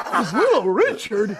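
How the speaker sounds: slow, high Brooklyn disbelief; Brooklyn dad. Retold or imitated. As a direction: imitate an incredulous Brooklyn father. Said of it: "my dad from Brooklyn, he goes, talks like this".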